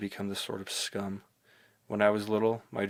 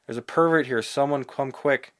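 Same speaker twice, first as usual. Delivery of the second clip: high, loud alarmed cry; imagined scream; 5 semitones higher, 9 dB louder than usual. Pretend. Girl imagined screaming for help at a pervert, loud alarmed shout.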